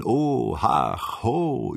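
swooping oohs and ahs; exclamations of wonder. Acted. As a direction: let each interjection rise and fall in awe. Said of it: "Joe brachte eine Unmasse von Onomatopoen hervor".

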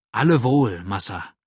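joyful. A narrator's reading. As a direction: cheerfully confirm to master. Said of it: "bestätigte freudig der Bursche".

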